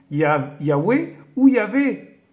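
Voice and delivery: Yahweh ou Yahvé spoken slowly, each name separated; careful pronunciation. Shown as a demonstration. Reading the true pronunciation to viewers, slow and deliberate. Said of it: "vraie prononciation de ce tétragramme".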